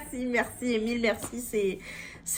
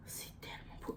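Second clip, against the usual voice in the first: whispering; 22 dB quieter than usual. Real, not acted. Whispered admiration.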